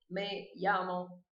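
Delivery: llamo said slowly as ya-mo; drawn-out teacher model of llamo; slow careful demo. Shown as a demonstration. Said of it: "Use as que eu acabei de te ensinar".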